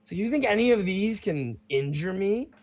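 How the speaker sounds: high, loud, laughing brag; laughing boast. Acted. Bruno boasting while laughing.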